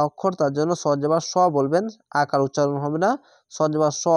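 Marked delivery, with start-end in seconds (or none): 3.5-4.1 স said short and thick, never as সা; short heavy স. Shown as a demonstration. Teacher correcting সা to a short স. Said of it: "সা কখনোই বলবেন না".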